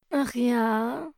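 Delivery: mürrisches Hundegebrumm; gebrummt. A narrator's reading. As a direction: brumm es desinteressiert. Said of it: "brummte Otto Mops". (der faule Mops brummt Charlie abweisend an)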